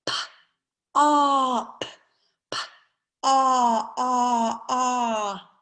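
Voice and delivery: "P" then a stretched "op" and "ah, ah, ah"; slow sound pushing. Shown as a demonstration. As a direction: model each sound slowly for the class. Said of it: "saying those words very slowly".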